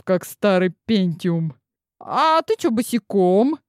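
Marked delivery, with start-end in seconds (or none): 2.0-3.6 cheeky question. Acted. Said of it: "нагло поинтересовалась нахалка".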